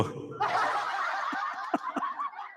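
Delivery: high, drawn-out laughing fit; real laugh. Real, not acted. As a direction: laugh helplessly at a joke. Laughs at the chat's joke. (mahabang tawang totoo)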